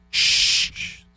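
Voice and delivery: hushed secretive whisper; playful whisper. Pretend. Joking about secret art space.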